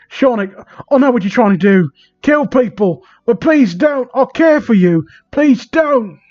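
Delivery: hammed-up tearful begging; mock crying plea. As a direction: melodramatic fake crying plea. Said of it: "I say, crying my heart out".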